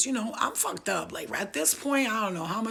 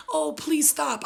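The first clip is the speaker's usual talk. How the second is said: high, loud fake begging; mock pleading; 8 semitones higher, 5 dB louder, slower than usual. What she didn't say to her attacker, mock pleading. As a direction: beg like a helpless victim, hammed-up. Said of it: "So instead of being like".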